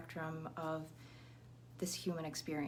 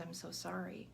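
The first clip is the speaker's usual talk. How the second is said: softer sympathetic I'm so sorry, no whisper; soft condolence; 5 dB quieter than usual. Retold or imitated. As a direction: say it gently like a usual condolence. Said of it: "we typically say is".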